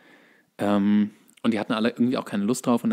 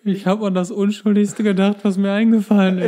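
sheepish movie quote; 9 semitones higher, 5 dB louder than usual. Retold or imitated. Co-host answers the movie quote in a high sheepish voice. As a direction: admit it in a high sheepish whine. Reenacting confession line.

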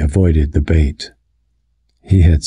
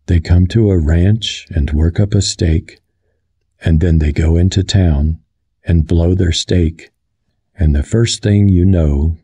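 measured, rhythmic storytelling; rhythmic recital. A narrator's reading. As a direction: recite it like an often-repeated tale. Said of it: "George's voice became deeper. He repeated his words rhythmically".

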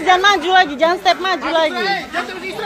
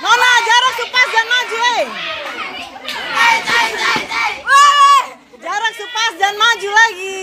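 coach shouting. Real, not acted. Coach calling to fighter ringside.

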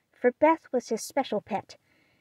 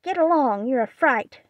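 much higher, louder parrot scream; 5 semitones higher, 5 dB louder than usual. Acted. Polly screaming at Amy, loud parrot screech. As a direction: screech it rudely at the girl. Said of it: "screamed Polly".

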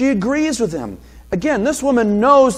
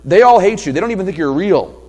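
humble woman's voice; 4 dB louder than usual. Pretend. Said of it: "So she would have known this".

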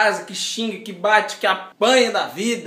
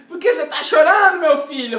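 worried mother; 7 semitones higher, 6 dB louder than usual. Retold or imitated. Mother asks crying son.

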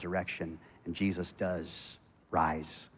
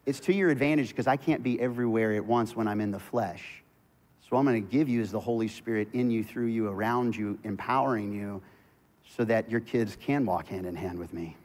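gentle Jesus quote. Retold or imitated. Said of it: "He's saying".

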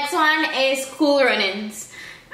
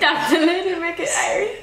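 higher-pitched parody of a Jamaican plea; mock Jamaican accent; 5 semitones higher than usual. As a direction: parrot it in a playful Jamaican accent. Parroting the clip's accented line.

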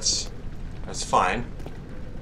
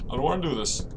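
quiet scared repeat; 6 dB quieter, faster than usual. Real, not acted. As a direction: say it again, softer.

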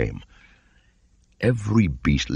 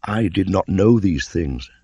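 put-on high, loud, slow sulky boy voice; sullen boy; 5 semitones higher, 5 dB louder than usual. A narrator's reading. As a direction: sulk like a hurt child. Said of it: "said Mowgli sullenly".

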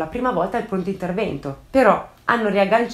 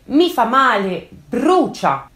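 pained moan; 4 semitones higher, 4 dB louder, much slower than usual. Retold or imitated. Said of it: "Marco si lamenta in continuazione".

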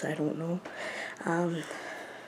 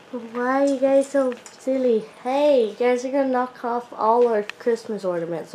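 higher-pitched pet-scolding voice; playful scolding; 4 semitones higher than usual. Real, not acted. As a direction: chide the pets in a lilting voice. Playfully scolding pets in tree.

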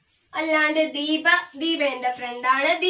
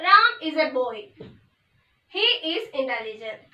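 slow dictation; much slower than usual. Shown as a demonstration. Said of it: "teacher writing example on board".

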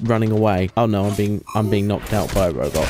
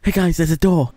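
mock callout; 7 semitones higher than usual. Mocking a game callout.

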